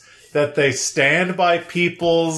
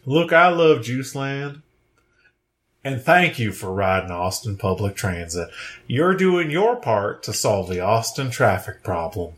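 Matthew McConaughey; 3 semitones lower than usual. Pretend. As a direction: talk it low and easy like a Texan star. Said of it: "They think one of us is Matthew McConaughey".

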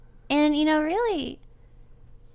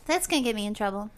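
creepy voice; 4 semitones lower, much faster than usual. Pretend. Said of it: "Oh, that was creepy".

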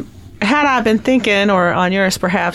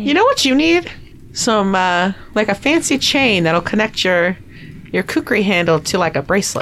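put-on a lightly done Southern accent. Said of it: "I was not thinking of southern accent".

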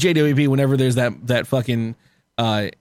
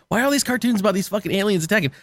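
imagined Japanese complaint; 7 semitones higher, faster than usual. Retold or imitated. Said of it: "And they're like".

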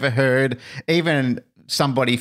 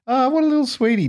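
much higher, delighted coo; cooing over a cute kid. Retold or imitated. Co-host recalls seeing the little girl's ad, cooing high. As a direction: gush like you're watching a sweet child.

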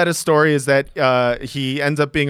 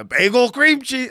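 put-on Jewish accent; 9 semitones higher than usual. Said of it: "kind of do a Jewish voice".

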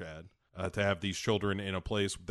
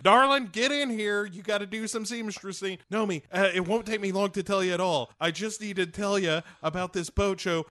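high, loud, flamboyant darling-voice; fussy diva; 9 semitones higher, 4 dB louder than usual. Retold or imitated. Showgirl pestering Nomi about the boat show, high hammed-up diva. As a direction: ham up a needy showgirl calling Nomi. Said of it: "Molly is like".

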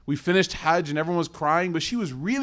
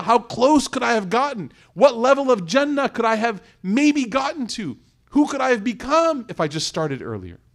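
put-on higher, lamenting voice of an old woman full of regret; regretful elderly woman; 5 semitones higher than usual. An elderly woman in a wheelchair after Hajj, voiced in sorrowful regret. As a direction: let each question ache with what could have been. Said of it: "She go".

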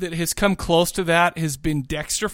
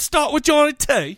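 announcer voice; 9 semitones higher than usual. Acted. Announcing next caller.

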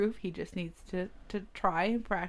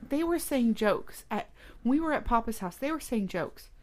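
higher-pitched imitation of an upset girl; mock insistence; 5 semitones higher than usual. Girl reporting jokes at Papa's house, insistent. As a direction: insist like a cross child.

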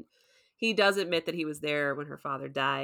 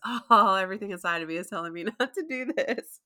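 nervous Steven; 2 semitones higher than usual. Retold or imitated. Host quoting Steven's fearful hesitation, quick and nervous. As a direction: blurt it out anxiously. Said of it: "he goes".

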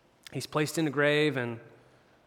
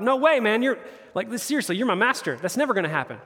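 mildly indignant, higher-pitched retort; a little offended; 4 semitones higher than usual. Retold or imitated. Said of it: "Peter was a little offended at that".

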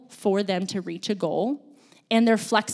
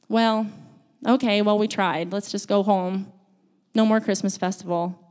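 mock resignation. Pretends to give up the trip.

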